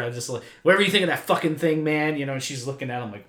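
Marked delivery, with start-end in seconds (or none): 0.6-2.2 fake tough guy. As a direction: try too hard to sound like a gangster. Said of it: "trying to jive with the gangster".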